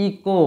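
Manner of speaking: ইকো with a long "ee" at the start. Shown as a demonstration. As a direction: stretch the first vowel of ইকো into "ee". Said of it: "ই এর উচ্চারণটা কেমন হবে? লং।".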